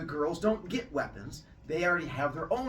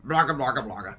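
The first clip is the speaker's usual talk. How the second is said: loud monster babble; 7 dB louder, faster than usual. Acted. Monsters agreeing in gibberish.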